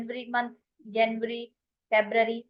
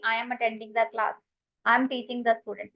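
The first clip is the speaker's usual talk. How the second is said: slow dictation; much slower than usual. Shown as a demonstration. Teacher dictates English example sentences.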